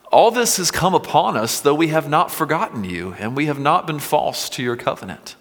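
impassioned reading. Acted. Psalm lament read with passion.

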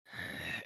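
imitated creepy breathing; wordless breath of a lurking watcher. Little boy staring through the window, creepy breathing.

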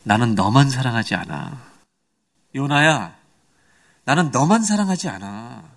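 slow, drawn-out words as God to Jonah; lightly voiced God, patiently slow; God's gentle correction. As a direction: imitate God explaining slowly to Jonah. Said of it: "하나님은 이걸 얘기하시는 것 같아요".

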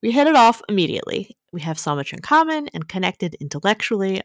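lively opening, settling into measured read-aloud phrasing; letter reading. A narrator's reading. Host reading a dating dilemma to co-host, letter-reading voice.

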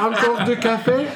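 put-on French accent, waiter pitch. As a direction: play the attentive Paris waiter.

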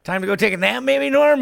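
kindly suggestion, voice lifted; gentle nudging dad. Retold or imitated. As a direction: coax a tipsy old man to bed. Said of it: "He goes".

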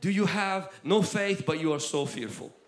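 Jesus confronting fearful disciples, loud and slow; loud slow rebuke. Retold or imitated. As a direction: thunder it at them. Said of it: "He says".

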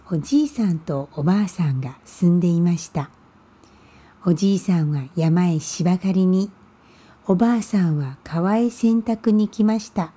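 reading a Japanese folk tale aloud; unhurried fairy-tale narration; storytelling. A narrator's reading. Reads the Japanese story opening. (讲日本民间故事的说书语气)

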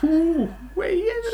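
high, slow drawn-out ooh at Wales; mock impressed ooh. Teasing a friend about Wales, mock impressed. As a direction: pretend to be wowed, stretching it out.

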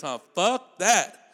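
ordinary delivery

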